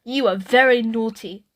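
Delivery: a touch of stern mother, lightly voiced; mildly stern telling-off; understated firm scolding; sternly. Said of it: "said Mum sternly".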